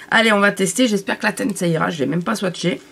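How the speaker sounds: blocked nose, talking through it; nasal voice. Real, not acted. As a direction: speak with a stuffed-up nose. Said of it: "je parle du nez".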